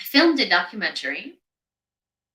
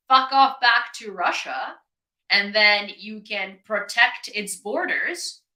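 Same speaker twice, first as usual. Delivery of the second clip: slow, louder, biting anger; angry; 4 dB louder, slower than usual. Real, not acted. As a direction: spit the words out slowly. Angry rant at invaders.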